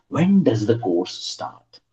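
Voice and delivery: slow, careful model question; slow model reading. Shown as a demonstration. Teacher reading a model question slowly to students. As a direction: read it out slowly for the class. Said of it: "let me give you one example".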